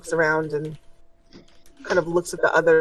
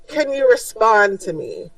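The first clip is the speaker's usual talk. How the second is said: strong voice; 3 semitones higher than usual. Acted. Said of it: "he says in a strong voice".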